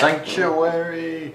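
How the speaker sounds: high, slow shrill shout of a halfling; halfling bell ringer yelling. Retold or imitated. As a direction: yell it out slowly like a tiny bell ringer. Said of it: "scream in his high-pitched halfling shrill voice".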